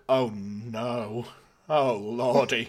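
slow, laughing mock panic; a hammed-up oh-no moment, drawn out with a laugh; mock dismay. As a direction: play up the embarrassed horror, slowly. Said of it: "I was just like".

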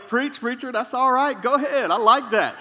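lightly voiced call to the preacher; congregation response. Shown as a demonstration. Teaching the congregation how to encourage him, mild call. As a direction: show them how to cheer the preacher on. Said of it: "You can say".

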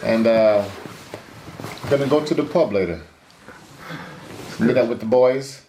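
lightly voiced British boxer chatting; a hint of a British fighter's accent, building to a rowdy finish; casual British lad working up to a party cry; Tyson Fury. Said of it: "That was Tyson Fury".

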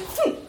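short, sharp "phew" sound; imitated quick whoosh. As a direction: mimic a swift swish. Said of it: "and I went".

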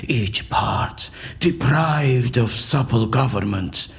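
slow, solemn Shakespearean declamation; theatrical verse recitation. Acted. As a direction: recite the verse like a stage actor casting a spell. Recites Shakespeare's potion speech.

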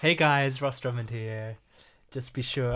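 slightly lispy calm host; lispy YouTuber voice. Pretend. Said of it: "I'm gonna do this voice".

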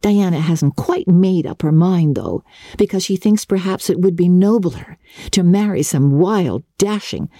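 bright, breathless schoolgirl rambling on; dreamy young Anne. Acted. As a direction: lively chatter of an imaginative girl. Voices Anne, higher and girlish.

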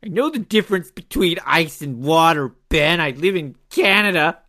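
mock Wyoming twang imitating a co-host; Wyoming accent. Teasing co-host about living in Canada, mock Wyoming accent. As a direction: parrot it back in a put-on Wyoming accent. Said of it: "That's my good Wyoming accent".

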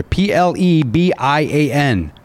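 slow letter-by-letter spelling. Shown as a demonstration. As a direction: spell each letter slowly and clearly. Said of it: "Let me spell that for you".

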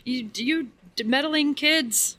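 put-on slow drawn-out meddling kids; hint of a foiled villain; lightly voiced cartoon villain. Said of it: "our impersonation".

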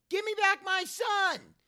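slow, high scream of a movie line; Mel impression. Kid screaming the movie line so dad stops, high drawn-out scream. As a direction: scream it out, stretching every word. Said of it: "once I start screaming".

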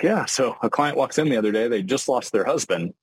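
mock-casual client story told too lightly; breezy, careless telling. Shown as a demonstration. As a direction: toss off the bad news like small talk. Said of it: "It's like, no, that, like, you need to, like, sit in that".

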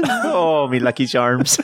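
half-hearted leprechaun mascot voice; Lucky Charms guy. Pretend. Co-host obliges after being asked for an accent, half-hearted mascot impression. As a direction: lightly put on a cartoon Irish accent. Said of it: "as the Lucky Charms guy".

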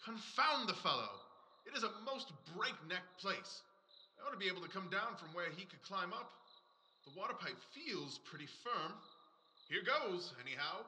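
distant, soft, from up on a roof; calling from far above. Acted. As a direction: call down from the rooftop, far away. Holmes talking from the roof.

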